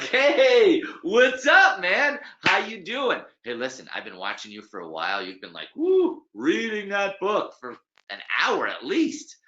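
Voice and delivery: high, loud, brash stranger's greeting; loud American guy. Retold or imitated. Bald stranger interrupting a reader in the park, loud and brash. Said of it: "loud, bald American guy".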